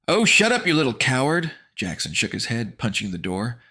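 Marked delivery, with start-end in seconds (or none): 0.1-1.5 put-on higher, louder angry boy; scornful shout; angry snap. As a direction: tell him off. Jackson angry at door.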